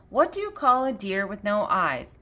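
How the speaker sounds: light put-on Southern accent; lightly playful Southern accent. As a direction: ask it with a touch of Southern accent. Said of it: "In a southern accent".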